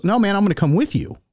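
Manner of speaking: a light, quick take on Ronnie insisting; Ronnie Coleman voice. Retold or imitated. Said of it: "he goes".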